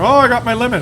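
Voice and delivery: lightly voiced old fisherman bragging; dad boasting. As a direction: brag it up high like the old man.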